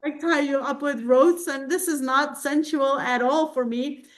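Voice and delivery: light imitation of her own protest; high, pleading self-quote.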